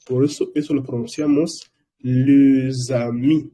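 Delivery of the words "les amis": les amis with a z linking, le-za-mi; liaison. Shown as a demonstration. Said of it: "se pronuncia Z". (les amis con zeta de enlace)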